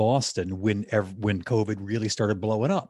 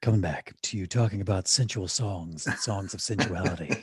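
lightly put-on late-night DJ patter; a hint of smooth radio host; low radio voice; 2 semitones lower than usual. Host riffing on sensual songs, mock radio voice. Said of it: "Are we doing our low radio voices?".

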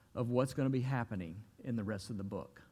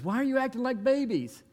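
higher, louder, teasing voice; mocking disciple; 11 semitones higher, 4 dB louder than usual. John calling back to Peter, high mocking shout. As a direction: relay it with a jeer. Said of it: "And John says".

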